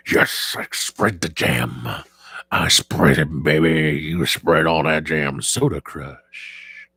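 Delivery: low, drawn-out game-announcer voice; mock game announcer. Streamer crowing at the jam game, in a low slow announcer voice. Playful boasting at a clicking game.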